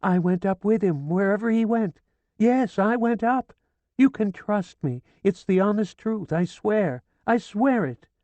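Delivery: high, loud, feverish insistence; frantic swearing. A narrator's reading. Hysterical widow swearing to the police, frantic. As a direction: swear it with wild urgency.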